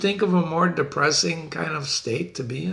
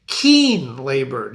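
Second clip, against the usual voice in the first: "keen labor" very slow, "keen" louder and lower; stress on keen; 4 semitones lower, 4 dB louder, much slower than usual. Shown as a demonstration. Teacher repeating "keen labor" to stress it. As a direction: draw out "keen" heavily. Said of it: "Note the flip of the adjective".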